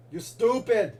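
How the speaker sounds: high-pitched put-on character voice; Arnold impression. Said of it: "Arnold, am I a funny guy?".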